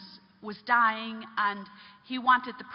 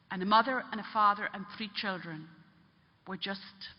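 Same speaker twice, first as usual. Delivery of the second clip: grave retold confession; 2 semitones lower than usual. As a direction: let the last words sink away heavily. Man confesses fatal train accident.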